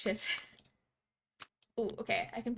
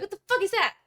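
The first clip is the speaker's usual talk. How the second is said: higher, louder mock jeer of schoolkids; 8 semitones higher, 6 dB louder, faster than usual. Schoolkids mocking her Fanta, loud jeering. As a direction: sneer it like a kid in the schoolyard. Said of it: "they were like".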